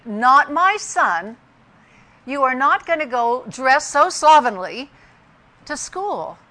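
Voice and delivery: firm, indignant mother, mildly acted; retold furious mother. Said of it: "I was absolutely furious".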